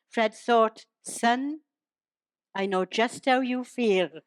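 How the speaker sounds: measured, rhyming verse delivery; storytelling in steady verse rhythm; comic poem recital. Acted. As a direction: recite it as light verse to an audience.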